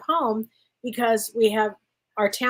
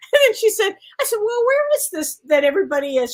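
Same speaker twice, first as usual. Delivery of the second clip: high, loud, breaking into laughter; words squeezed through giggles; laughing while talking; 10 semitones higher, 4 dB louder, faster than usual. Real, not acted. Cracking up telling a friend the story, laughing through words.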